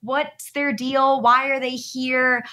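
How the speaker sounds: puzzled judgment of the regulars, half-mocking; judgmental. Retreat newcomer sizing up repeat attendees, mildly judgmental. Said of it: "I was a little judgmental".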